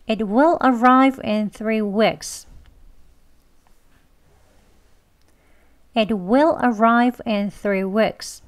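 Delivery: very slow, every word of "It will arrive in three weeks" spelled out; slow careful English. Shown as a demonstration. Teacher reading the example sentence slowly for learners. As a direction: say each word slowly and clearly. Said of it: "천천히 느린 발음으로 두 번 하고요".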